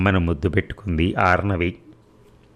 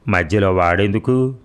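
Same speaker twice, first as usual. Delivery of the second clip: a lightly voiced irritated snap. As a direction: brush the question aside, slightly raised. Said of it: "విసుగ్గా అంది".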